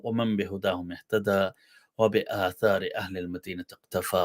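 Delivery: fast formal sermon opening; rapid Arabic invocation. Acted. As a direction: rattle off the opening blessing quickly.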